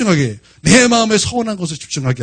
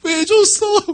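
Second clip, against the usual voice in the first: put-on high, whining child's complaint; imitated tearful protest; 10 semitones higher, much slower than usual. Crying child asking why the puppy was given away, high imitated wail. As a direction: whine it like a weeping child. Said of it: "어, 펑펑 울어요".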